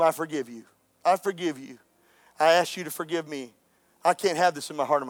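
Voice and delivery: low, soft, sincere retelling; hushed, earnest apology; tender forgiveness. Retold or imitated. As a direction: gently voice the wife letting go. Retold tearful reconciliation with husband.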